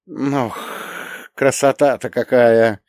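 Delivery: Yakovlev voice. Retold or imitated. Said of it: "голосом Яковлева из Ивана Васильевича".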